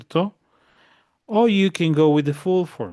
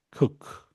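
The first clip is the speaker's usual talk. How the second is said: isolated, emphatic "cook"; stressed verb. Shown as a demonstration. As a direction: say "cook" alone as the accented word. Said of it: "Un poco más de acento aquí".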